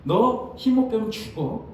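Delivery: menacing slow warning; mock threatening teacher; slow threat. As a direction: threaten the student slowly. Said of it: "이런 말투인 거잖아요".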